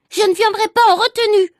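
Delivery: put-on sobbing boy shouting his refusal; wailing refusal. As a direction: refuse in a tantrum. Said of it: "a crié Agnan".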